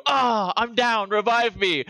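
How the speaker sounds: mock-wounded call, stretched out; downed character's plea. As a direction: play a fallen teammate calling out. Acting out downed game character.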